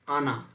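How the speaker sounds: आना set apart as its own word; split word. Shown as a demonstration. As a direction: say आना alone after a pause. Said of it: "इसका अगर हम विभाजन करें".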